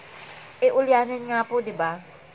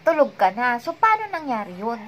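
retold angry confrontation. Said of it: "Galit na ako".

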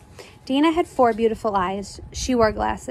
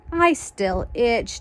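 slow, drawn-out mild complaint; understated slow whine; complaining; much slower than usual. Acted. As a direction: grumble it, stretching each word. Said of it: "Dana complained".

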